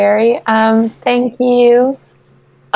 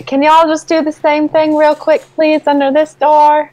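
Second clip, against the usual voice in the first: bee voice; 5 semitones higher than usual. Acted. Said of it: "you sound like a bee".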